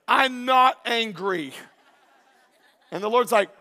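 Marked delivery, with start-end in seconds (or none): 0.1-1.5 defensive denial. Retold or imitated. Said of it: "I'm sure Cain was like".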